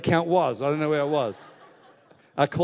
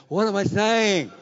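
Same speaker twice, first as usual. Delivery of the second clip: panicked inner voice; 3 semitones higher, 6 dB louder, slower than usual. Retold or imitated. Retelling his panic signing for house.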